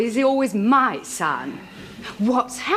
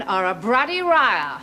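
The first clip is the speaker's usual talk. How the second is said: mocking Japanese accent, L said as R; "bruddy riar" with R for L, mocking Japanese; lightly mocking Japanese accent. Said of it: "as they would say in Japan".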